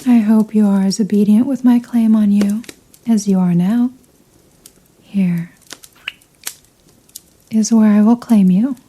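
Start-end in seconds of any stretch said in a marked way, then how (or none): 5.0-5.5 slow possessive whisper. Acted. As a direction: breathe the words slowly into the ear. Vampire whispers before biting.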